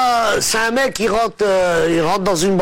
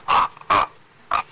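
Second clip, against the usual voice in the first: higher, half laughing, stuck on each sound; stammering; 8 semitones higher than usual. Acted. Stuttering man explaining his phone job, stammering. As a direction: stutter it out, breaking up. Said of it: "C'est un mec qui bégaye".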